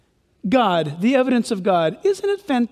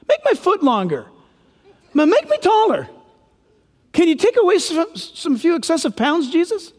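higher, fast, wheedling demands; pestering Herod; 5 semitones higher than usual. Retold or imitated. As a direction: nag like a crowd wanting tricks. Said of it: "the word means this".

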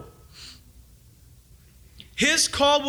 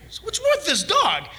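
laughing; 9 semitones higher than usual. Real, not acted. Laughing at the upset dog.

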